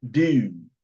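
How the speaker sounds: dude with a light Baltimore vowel; Baltimore accent. Shown as a demonstration. Showing viewers how Baltimore says it, light Baltimore accent. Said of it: "the way they say dude".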